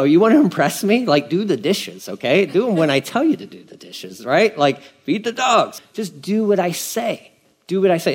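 mock nagging parent laying down the law; exasperated parent. Parent telling the kids to do the dishes, mock exasperated.

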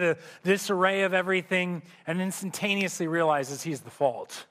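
ordinary talk, nothing marked

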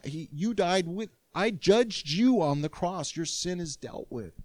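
God coaxing the sinner close, eager and loving; excited loving God. Retold or imitated. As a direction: voice God bursting with love. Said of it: "He says".

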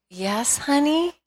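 sweet, high "honey" over hidden frustration; nicest voice. Retold or imitated. Mother answering her son, mock-sweet and patient. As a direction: put on a forced sweet voice. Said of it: "trying in my nicest voice".

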